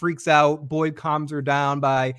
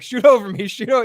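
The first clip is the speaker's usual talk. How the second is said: lightly voiced dad, raised pitch; a hint of a taunting basketball dad; teasing dad; 7 semitones higher, 6 dB louder than usual. Dad holding his son off at basketball, lightly acted taunt.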